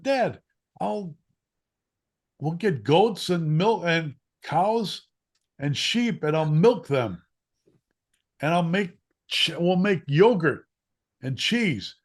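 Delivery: high, loud, slow and eager; excited kid voice. Retold or imitated. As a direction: pitch the big plan like a thrilled child. Kid pitching farm plan excitedly.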